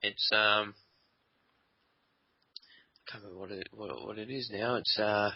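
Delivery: talking while eating; words round a bite of dessert; mouth full. Real, not acted. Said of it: "Are you eating?".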